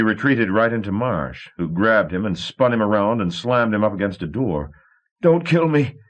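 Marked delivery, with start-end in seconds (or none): 5.2-6.0 much higher and louder, a panicked squeal; a pinned coward squealing for mercy; squealing plea. A narrator's reading. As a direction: beg for your life in terror. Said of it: "Billy squealed".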